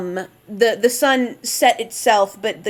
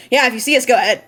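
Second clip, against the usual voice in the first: put-on Vistani accent; 3 semitones higher, 5 dB louder, much faster than usual. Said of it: "I don't know why I'm using the Vistani accent".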